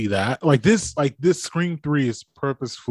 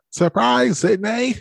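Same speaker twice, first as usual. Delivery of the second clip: Ghostface voice; 10 semitones higher, 4 dB louder, slower than usual. Retold or imitated. Quoting Ghostface voice changer.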